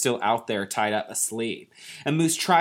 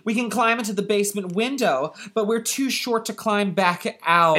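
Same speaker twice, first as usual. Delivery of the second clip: gnome voice; 6 semitones higher than usual. Acted. Gnome dialogue continued.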